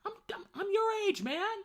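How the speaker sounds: imitating his own stunned reply; incredulous retort. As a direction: play up your outrage at being called older. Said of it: "I'm like".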